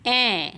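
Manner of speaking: ॲ as a short open "a" as in apple; phonic A sound. Shown as a demonstration. Teacher showing children the sound of A, ॲ as open "a". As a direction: sound out ॲ on its own. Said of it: "एचा उच्चार होतो".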